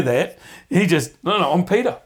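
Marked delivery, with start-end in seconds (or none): 1.2-2.0 high, loud cocky insistence; swaggering Peter, much higher and louder; boastful Peter. Acted. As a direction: brush it off and puff up your chest. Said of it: "that's what it sounds like".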